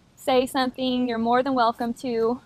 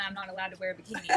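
laughing; 2 semitones lower, 14 dB quieter, much faster than usual. Real, not acted. Laughs recalling dad's scolding.

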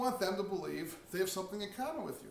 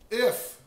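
"If" blurted much higher and louder; emphatic if; 5 semitones higher, 12 dB louder than usual. Shown as a demonstration. Fixing his own stumble, shouting out "If". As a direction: punch out "If" as the final answer.

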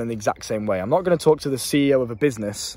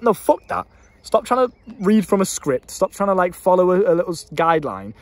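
higher, forceful self-scolding; firm self-talk; 4 semitones higher than usual. Retold or imitated. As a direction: tell yourself off with conviction. Firm self-talk telling himself off.

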